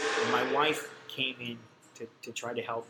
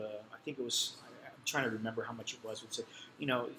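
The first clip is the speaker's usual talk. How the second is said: usual speaking voice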